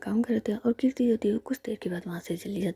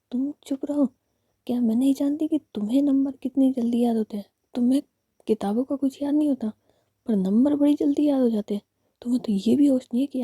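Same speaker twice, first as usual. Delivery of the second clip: put-on taunting girlfriend; 4 semitones higher, 5 dB louder than usual.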